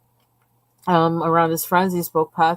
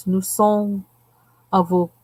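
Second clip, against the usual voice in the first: sounding out French from the tin in a faked accent; fake French accent. Shown as a demonstration. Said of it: "will you hear me fake that".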